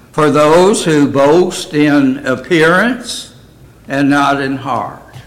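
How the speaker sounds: measured, emphatic Bible reading; scripture reading. Acted. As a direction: read the verse out clearly to the congregation. Reads scripture aloud.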